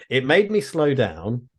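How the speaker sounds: slow, deliberately poor Scottish accent; bad Scottish accent. Shown as a demonstration. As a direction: attempt a rough Scottish accent, drawn out. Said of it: "I'm gonna do a really bad Scottish accent".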